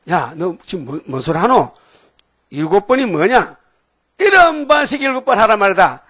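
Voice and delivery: building from a mild rebuke to a high, loud cry; rebuking shout. Acted. 예수가 베드로를 꾸짖음. (점점 높아지며 꾸짖는 외침)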